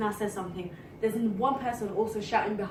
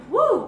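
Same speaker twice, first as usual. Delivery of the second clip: drawn-out, higher whew of relief; relieved whew; 9 semitones higher, 9 dB louder than usual. Retold or imitated. Friend retelling reaching safety among people, relieved whew. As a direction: let out a long retold "whew".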